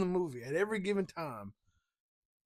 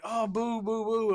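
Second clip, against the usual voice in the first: booing crowd; 5 semitones higher, 4 dB louder, slower than usual. Acted. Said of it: "everybody was like".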